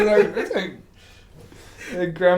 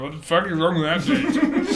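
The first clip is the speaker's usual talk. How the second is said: laughing mic quote; 4 dB louder than usual. Retold or imitated. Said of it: "into the microphone".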